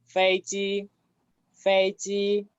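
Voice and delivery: FEIJI with both syllables level and sustained; both first tone. Shown as a demonstration. Teacher reading the second example, FEIJI in two level tones. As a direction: hold FEI and JI on the same steady note. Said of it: "las dos con primer tono".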